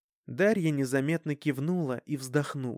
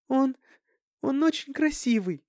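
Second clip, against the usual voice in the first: put-on much higher, tearful girl's cry; sobbing; 11 semitones higher, 3 dB louder than usual. A narrator's reading. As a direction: gush through tears, voice jumping up. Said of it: "всхлипнула Дарьяна". (всхлипывая, высоким голосом)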